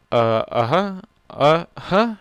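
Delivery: loud, eager proud agreement; proud uh-huh. Acted. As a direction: nod along proudly, beaming. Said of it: "Spike nodded proudly".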